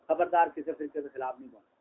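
low, softened mock warning; sarcastic hushed caution. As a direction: drop low and caution them quietly. Mock warning not to speak out.

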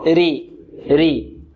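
ري with a thin light ra. Shown as a demonstration. Teacher modelling the light ra for students. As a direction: say ري lightly, ra thinned. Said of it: "ترقق إذا كانت مكسورة".

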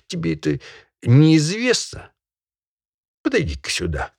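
loom over the peasant as a stern master; stern landowner. Acted. Barin Volchkov scolding peasant.

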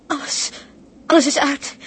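sobbing cry of despair. Acted. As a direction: wail as everything is lost. Ship crashed, all is lost. (huilend van wanhoop)

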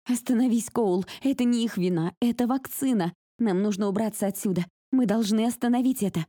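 high, loud desperate pleas; desperate shouting. Acted. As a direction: yell over the gunfire. Pleading with Cole amid explosions.

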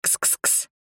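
шёпотом: кс-кс-кс; тихо подманить кота; подзывание кота. A narrator's reading. (ведьма шепчет коту кс-кс-кс)

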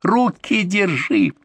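high, slow, pulled-out yell; yelled order. Acted. Pinned patient fighting, he yells to partner to hold arms. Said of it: "заорал я".

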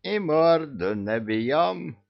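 медленно и выше, с нажимом; требуй расправы, растягивая слова; требовательно. Acted. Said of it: "потребовал Кощей". (медленное требование)

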